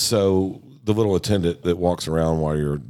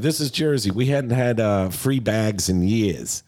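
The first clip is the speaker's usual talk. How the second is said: gruff Jersey guy; 6 semitones higher, slower than usual. Retold or imitated. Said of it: "he's like".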